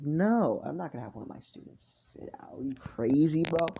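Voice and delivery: mock-indignant teacher refusing; indignant refusal. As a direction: play a teacher turning down a plea. Acts teacher refusing student's plea.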